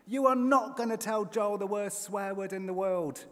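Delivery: high, loud telling-off; yelling. A narrator's reading. Wife yelling at husband, forbidding him firmly. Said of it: "Elaine yells".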